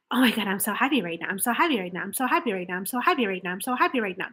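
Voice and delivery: fast, forced excited gushing; pretend happiness. Shown as a demonstration. Coach pretending to be happy to compare with robotic version. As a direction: fake being thrilled, a little forceful. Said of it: "kind of pretend and say".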